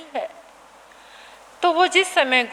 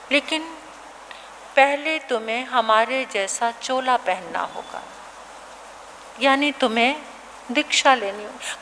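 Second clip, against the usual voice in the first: gentle teacher; 3 semitones lower, 5 dB quieter than usual. Acted. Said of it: "आचार्य कहने लगे".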